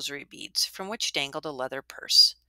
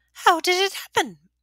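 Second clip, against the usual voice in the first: high, breathless whispered question; hushed old widow; 14 semitones higher, 7 dB louder than usual. A narrator's reading. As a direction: lean in for the secret.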